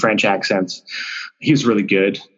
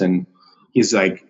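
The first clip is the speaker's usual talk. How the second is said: ordinary talk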